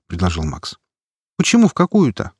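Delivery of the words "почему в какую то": high, puzzled surprise; surprised. A narrator's reading. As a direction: ask it with real surprise. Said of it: "удивилась девушка".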